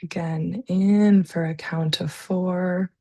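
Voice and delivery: calm, unhurried breathing guidance with long pauses; guided meditation. Real, not acted. Leads slow breathing exercise.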